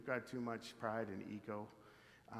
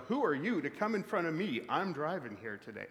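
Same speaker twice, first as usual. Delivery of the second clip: raised, louder mock road-rage outburst; road rage rant; 4 semitones higher, 5 dB louder than usual. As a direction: act out a driver's indignant ego. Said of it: "road rage".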